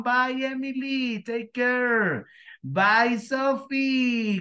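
high, bright farewell calls; cheerful goodbyes. Real, not acted. Teacher calling goodbye to each student, cheerful and high.

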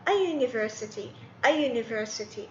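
"A university" said slowly, with "a" and a clear "yoo"; teacher demo, slow and clear; slow model phrase. Shown as a demonstration. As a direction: drill "a university" slowly, twice. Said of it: "أحط بعدها أداة تعريف آ".

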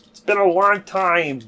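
dramatic. Acted. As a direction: belt it out like the hero's big line. Second, bigger take of quote.

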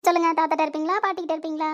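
doting grandmother's lilt; coaxing a child. Acted. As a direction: ask a toddler teasingly. Grandmother playfully quizzes the child.

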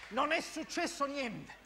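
measured denial; insisting all is fine. Acted. Reassures after the uproar.

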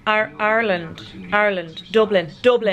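attempted Irish accent. Shown as a demonstration. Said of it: "I can't do Irish".

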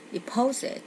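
"deposit" with PO stressed; stress on second syllable. Shown as a demonstration. Teacher showing word stress to students, "deposit" stressed on PO. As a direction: slowly lean on the middle syllable of "deposit". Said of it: "nhấn âm hai".

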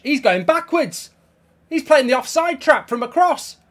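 high, loud exasperated complaint; angry outburst. Real, not acted. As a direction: yell in disbelief at the defender. Gamer furious at defender.

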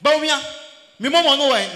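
1 mock barging shout. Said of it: "Kennedy Japan barged into the meeting".

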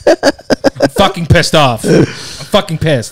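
slow, drawn-out mock anger; mock angry Ben. Friend reacts to the neighbor's note with slow mock fury. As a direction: play up fake outrage, slowly. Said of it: "I don't think I've heard Ben that angry".

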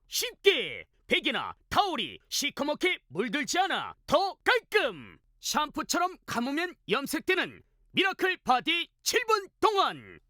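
punchy home shopping pitch; hard sell ad. Acted. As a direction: sell it hard, deal after deal.

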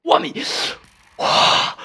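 sudden high startled cry; surprised shout. Real, not acted. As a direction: yelp in shock. Sudden in-game shock.

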